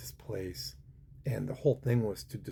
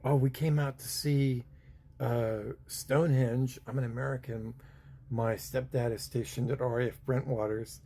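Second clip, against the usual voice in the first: put-on thick American accent; 2 semitones higher than usual. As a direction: sell the cop on being a Yank. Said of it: "I put on the thickest American that I had".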